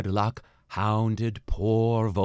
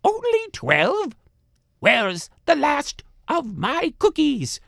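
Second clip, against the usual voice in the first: man doing granny voice; 5 dB louder than usual. A narrator's reading. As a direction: wail then whisper like a cheated crone. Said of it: "cried the little old lady".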